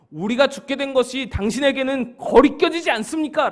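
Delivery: angry challenge, pushed high and strong; angry disciples. Acted. Disciples confronting Jesus as they face death, angry. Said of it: "화가 잔뜩 나 있었습니다".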